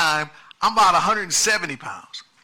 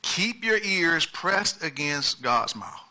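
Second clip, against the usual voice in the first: slower softer repeat; 4 dB quieter, slower than usual. Shown as a demonstration. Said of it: "Point number one".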